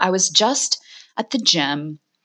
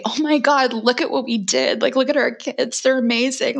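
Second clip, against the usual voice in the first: imagined proud exclamation; 5 semitones higher than usual. Retold or imitated. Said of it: "another parent to look at and say".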